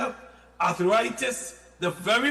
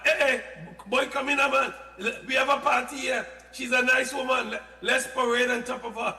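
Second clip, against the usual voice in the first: party host voice; 5 semitones higher than usual. Acted. Acts out diseases inviting each other.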